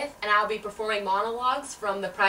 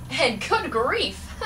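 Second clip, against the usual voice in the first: laughing; 3 semitones higher, much slower than usual. Acted. Joke punchline, slowed with laugh.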